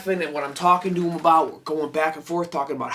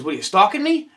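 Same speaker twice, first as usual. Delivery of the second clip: higher, louder playful accusation; mock accusing; 6 semitones higher, 5 dB louder than usual. Kane Hodder teasing a fan who came back, mock accusing. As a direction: tease him like a suspicious star.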